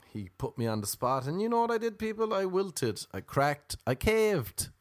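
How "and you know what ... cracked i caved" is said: mock despair. Real, not acted. Self-mocking confession to the audience.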